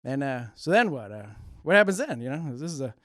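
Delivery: a lightly done Norm, rambling deadpan with lots of uh and you know; a hint of Norm telling a story, dry and meandering; eighties Norm Macdonald cadence. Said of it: "This is my, uh, Norm Macdonald impression".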